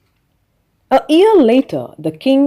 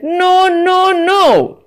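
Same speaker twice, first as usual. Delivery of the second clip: high, louder impish little man; little man's voice; 10 semitones higher, 5 dB louder, much slower than usual. A narrator's reading. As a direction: tease her like a sly little imp. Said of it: "he shook his head and said".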